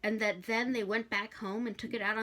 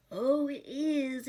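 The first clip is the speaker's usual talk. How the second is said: gloating; 7 semitones higher, 4 dB louder, much slower than usual. Acted. Hastur gloating at Crowley.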